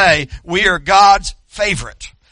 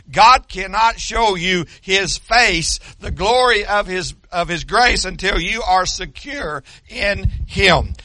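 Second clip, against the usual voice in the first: slow, louder preaching push; preaching yell; 3 dB louder, slower than usual. Real, not acted. Preacher yelling at the church till his voice goes. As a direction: drive each phrase home at full voice. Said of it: "I gotta quit yelling".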